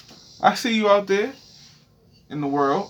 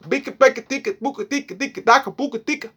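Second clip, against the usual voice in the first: mock master gibberish; 6 semitones higher than usual. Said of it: "Master spoke".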